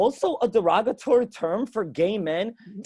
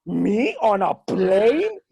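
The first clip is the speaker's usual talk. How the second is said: incredulous Spanish dad, drawn out and loud; old-school Spanish dad; 2 semitones higher, 5 dB louder, much slower than usual. Acted. Spanish dad asked to fly out, incredulous. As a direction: balk like a macho dad, stretching the words. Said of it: "every old school Spanish dad".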